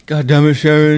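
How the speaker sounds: mumbly rocker calling his wife; a singer. Retold or imitated. Friend imitating a singer cursing his wife, mumbly. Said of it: "I can't do his voice".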